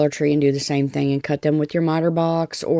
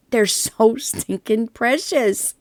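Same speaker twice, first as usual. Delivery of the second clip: laughing gush; 5 semitones higher, slower than usual. Real, not acted. Gushing over finished blocks.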